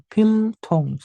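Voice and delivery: "Piltung" with a held, clear L before tung. Shown as a demonstration. Teacher modelling the reading for learners, Piltung with clear L. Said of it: "Real di akhir dibaca L".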